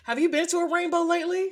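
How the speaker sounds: high, loud, snooty bougie auntie; rich bougie auntie voice. Acted. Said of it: "her rich bougie auntie voice".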